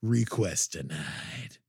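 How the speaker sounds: slow, cold final verdict; dramatic dismissal. Acted. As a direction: drop the hammer, hammy. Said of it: "way over dramatic".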